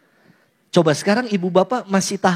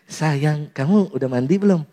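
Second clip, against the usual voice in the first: sweetheart question; 6 semitones lower than usual. Acted. Teenage boyfriend phoning his sweetheart at night, tender. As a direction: ask it tenderly and low. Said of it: "pertanyaannya masih gitu".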